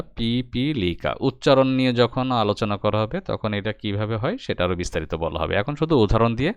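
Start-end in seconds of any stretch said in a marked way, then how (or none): 0.0-1.1 পিপীলিকা syllable by syllable, pi-pi-li-ka; careful teacher's model of পিপীলিকা; pronunciation demo. Shown as a demonstration. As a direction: spell out the sound of পিপীলিকা in beats. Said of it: "আমাদের উচ্চারণ করি আমরা".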